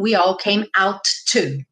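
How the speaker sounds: OUT TO with both T's released; overcareful "out to", two T's; wrong double T. Shown as a demonstration. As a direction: separate the T in "out" from "to". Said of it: "eu nunca falo".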